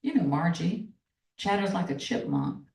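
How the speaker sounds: steady storyteller's reading of a novel passage; reading aloud. Acted. Author reading her novel to the interviewer, measured narration. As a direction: read the excerpt like an audiobook narrator.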